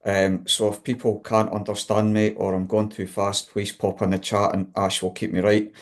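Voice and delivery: broad Scottish accent, quick and chatty. Real, not acted. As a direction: talk in your own broad Scottish accent. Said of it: "I have got a very strong Scottish accent".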